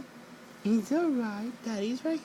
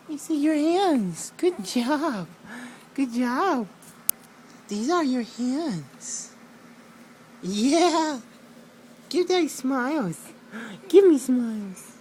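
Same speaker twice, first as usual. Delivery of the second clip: bright, louder cheering praise; excited praise; 5 dB louder than usual. Real, not acted. Dad cheering baby on.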